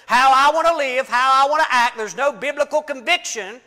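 full-force pulpit preaching, stirred up. Real, not acted. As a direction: preach it hard with rising fervor. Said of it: "I'm preaching now, I'm not teaching".

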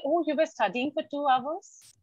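slow, drawn-out parental remark; mock parent marvelling, slowly; imitating a parent. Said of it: "do they ever say".

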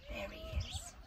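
soft, high playful pointing; high sing-song aside. Real, not acted. Reader to child, finding the tiny seed, soft high coo. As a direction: coo it like spotting a hidden friend.

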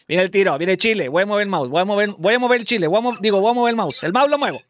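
excited commentary building in pitch; live play-by-play. Real, not acted. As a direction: build suspense before the kick.

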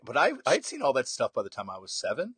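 normal talking voice

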